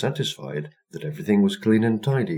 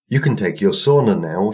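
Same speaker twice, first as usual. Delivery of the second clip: smiling; 3 semitones higher, 6 dB louder than usual. Acted. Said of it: "she smiled".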